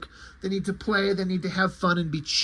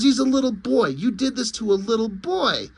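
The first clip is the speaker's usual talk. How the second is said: higher, indignant protest; outraged; 4 semitones higher than usual. Acted. Superman berates the wizard over a boy, outraged.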